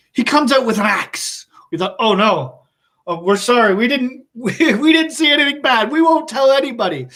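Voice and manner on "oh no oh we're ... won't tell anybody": pleading in mock fright. Boys plead with axe-holding Rob.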